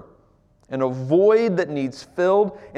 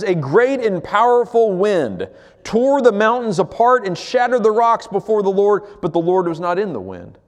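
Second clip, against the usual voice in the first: dramatic scripture reading; 5 semitones higher than usual. Acted.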